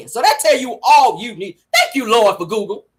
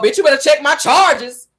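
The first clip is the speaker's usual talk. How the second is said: quoting Marlo; 4 semitones higher, 3 dB louder than usual. Retold or imitated. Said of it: "y'all remember when Marlo said on the episode".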